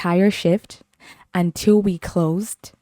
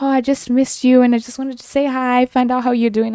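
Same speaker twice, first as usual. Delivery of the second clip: put-on sweet old lady voice; 6 semitones higher than usual. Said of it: "she was just like".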